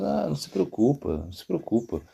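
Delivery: soft, soothing reassurance; hushed comforting quote, falling away; reassuring. Retold or imitated. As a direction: gently tell someone not to worry. Haridas consoles the weeping Prabhu.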